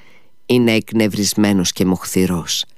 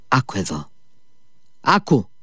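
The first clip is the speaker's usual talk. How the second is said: calling after; 3 semitones higher, 4 dB quieter than usual. A narrator's reading. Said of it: "φώναξε πίσω του".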